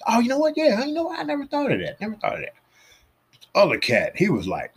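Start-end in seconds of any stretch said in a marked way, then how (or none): 0.1-2.5 mock amazed realization. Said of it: "one cat said".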